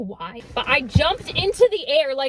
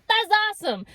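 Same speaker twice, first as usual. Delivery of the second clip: higher, deadpan sarcasm; sarcastic; 7 semitones higher than usual. Retold or imitated. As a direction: say it dripping sarcasm. Sarcastic reply.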